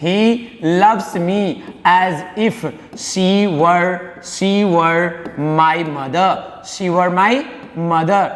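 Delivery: very slow, drawn-out sentence; teacher stretching each word for students; slow dictation. Shown as a demonstration. Teacher dictating the English sentence, very slow. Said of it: "तो he".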